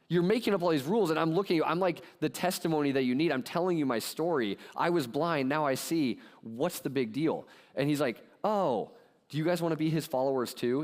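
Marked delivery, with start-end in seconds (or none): 0.1-7.5 mock exasperation. Healed man argues with the religious leaders. 8.4-10.8 higher, mock-innocent snarky question. Healed blind man needling the religious leaders, snarky. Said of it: "This guy gets really snarky".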